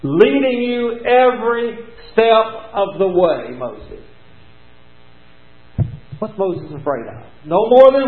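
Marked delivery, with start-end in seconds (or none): 0.0-4.0 slow, drawn-out reassurance; reassuring promise. Acted. God promising Moses he will guide him, slow and reassuring. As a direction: linger on every step as a comfort. God's promise, preached slowly.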